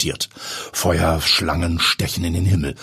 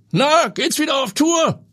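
jovial star chef calling across the airfield; Eduard von Apel; 3 dB louder than usual. Acted. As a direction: call out to an old friend. Narrator voices Eduard von Apel.

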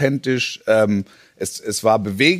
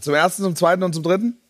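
auctioneer; 3 semitones higher, faster than usual. Acted. Auction call continues.

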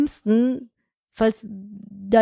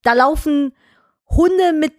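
annoyed muttering. Retold or imitated. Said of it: "ich denk mir immer so".

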